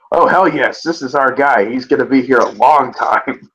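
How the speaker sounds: mock gushing owner. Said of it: "some guy put Jimmy Haslam's logic".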